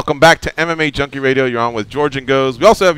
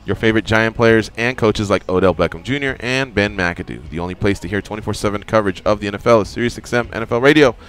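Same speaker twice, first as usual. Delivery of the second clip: ad read. Acted. Reads a radio ad.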